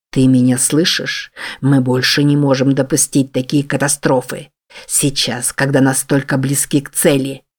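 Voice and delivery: low, heavy male voice with a sigh behind it; grim low man's voice. Acted. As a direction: speak low, as a weary, menacing boss. David's lines, lower voice.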